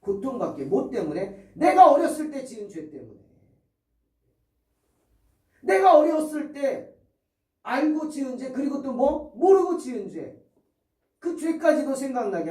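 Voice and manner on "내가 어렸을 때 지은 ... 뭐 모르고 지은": emphatic preaching. Acted. Emphatic sermon climax.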